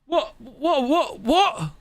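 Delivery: can't believe what he just read; real laugh of disbelief. Real, not acted. Laughing at a shocking chat suggestion.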